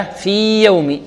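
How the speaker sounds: في يوم with long ee, then a separate y; clear separation. Shown as a demonstration. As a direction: hold في before beginning يوم. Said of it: "يعني أظهر".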